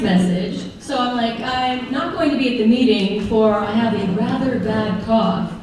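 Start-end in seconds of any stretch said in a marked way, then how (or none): 1.4-5.5 prim, overly proper delivery; pretentious formal. Retold or imitated. Texting the brothers in stiff, pretentious formal voice. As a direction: read it like a stuffy butler. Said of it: "I don't even talk like that".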